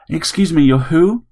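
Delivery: a grumpy widower caught off guard; startled old man. A narrator's reading. Harry questioning the robot, incredulous.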